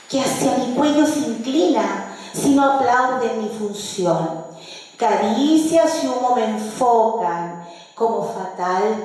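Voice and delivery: measured recital of rhymed verse, phrase by phrase; declaimed folk poem; poetry recitation. Shown as a demonstration. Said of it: "Voy a recitar las décimas".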